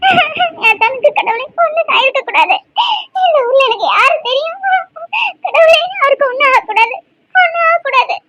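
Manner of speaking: tearful wail to God; weeping and praying through sobs; crying. Acted. Wife crying and praying for her husband's safety. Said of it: "அழுவ நிப்பாட்டு".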